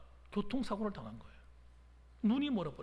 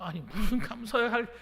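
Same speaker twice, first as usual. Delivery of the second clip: exasperated; 4 semitones higher, 6 dB louder than usual. Retold or imitated. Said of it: "좀 기가 막혀가지고".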